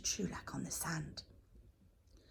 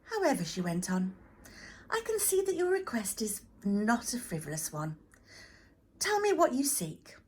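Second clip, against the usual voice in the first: kind goddess; 5 semitones higher than usual. Acted. Goddess speaks kindly.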